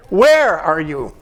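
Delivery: "Where are you?" with a long, slow WHERE, the rest dropping away; stress on WHERE. Shown as a demonstration. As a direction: draw out and punch the word "where". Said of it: "How else could you read it?".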